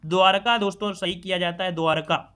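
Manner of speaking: ordinary talk, nothing marked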